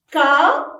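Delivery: "Café" split loudly into Ca, then fé; teacher's loud, separated "Ca... fé"; syllable by syllable. Shown as a demonstration. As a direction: clap out "Café" with a clear gap between syllables. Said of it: "Frappez-le en syllabe".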